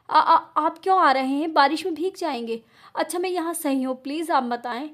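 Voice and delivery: scared pleading, stumbling over words; frightened stammer. Acted. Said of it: "घबराते हुए". (घबराई हुई हकलाती आवाज़)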